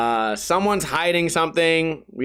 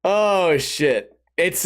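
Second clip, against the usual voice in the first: ordinary talk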